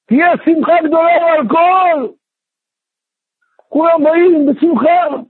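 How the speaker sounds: rally everyone for the celebration; acted eager announcement.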